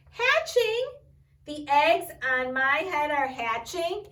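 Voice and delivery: high, loud alarmed gasp of surprise; alarmed cry. Acted. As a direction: blurt it out in sudden alarm. Elephant alarmed at hatching eggs.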